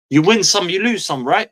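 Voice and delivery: put-on scoffing at the old saying; exasperated. Shown as a demonstration. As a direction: throw the phrase back in disbelief. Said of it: "that as a statement is not true".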